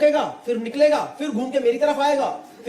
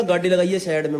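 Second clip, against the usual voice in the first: imitated blunt Haryanvi command; strong Haryanvi accent; 5 semitones lower than usual. Retelling a stranger's roadside order, in Haryanvi accent. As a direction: put the words in rustic Haryanvi. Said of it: "एकदम खड़ी हरियाणी में बोला".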